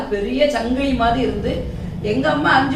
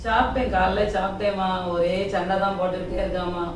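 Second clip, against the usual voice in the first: mournful complaint; 4 semitones lower than usual.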